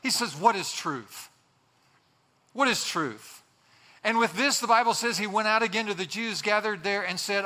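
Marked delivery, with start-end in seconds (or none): 0.3-3.4 dismissive cynical retort, falling at the end. Acted. Pilate retorts to Jesus, cynical. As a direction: toss it off with understated cynicism. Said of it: "with this tone of cynicism".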